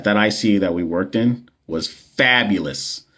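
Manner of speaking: dry sarcasm, not meaning fabulous; sarcastic. Real, not acted. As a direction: say fabulous while meaning awful. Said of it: "I'm saying that with such sarcasm".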